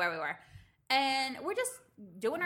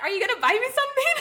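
high, loud, fast begging; bratty kid voice; 12 semitones higher, 10 dB louder, faster than usual. Retold or imitated. Friend playing the child at the spa, high and loud. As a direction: whine it like a greedy kid.

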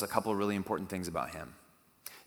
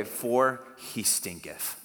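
drawn-out archaic; much slower than usual. Retold or imitated. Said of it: "It literally says".

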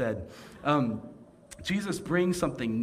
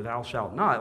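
a touch of booming lawgiver, a bit louder; mock solemn commandment; 6 dB louder than usual. Preacher to congregation, lightly voiced grand commandment. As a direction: intone it like a stone-tablet decree. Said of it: "it always starts with".

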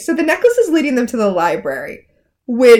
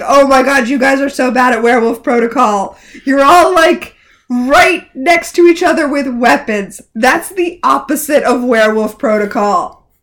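louder, incredulous mock telling-off; exasperated scolding; 5 dB louder than usual. Podcaster plays Regina berating the campsite, exasperated. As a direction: scold them in hammed-up disbelief.

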